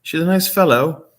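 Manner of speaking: mocking flat praise. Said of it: "you said it like it was so".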